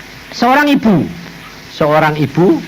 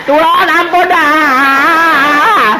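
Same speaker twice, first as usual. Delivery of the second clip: begging for mercy; 6 semitones higher, 3 dB louder, much slower than usual. Retold or imitated. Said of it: "Aku bilang".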